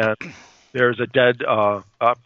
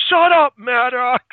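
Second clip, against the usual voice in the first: slow, high mock yell; retold group rebuke; 11 semitones higher, 4 dB louder than usual. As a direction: draw it out in exasperation, pitched way up. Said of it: "Everyone at the same time goes".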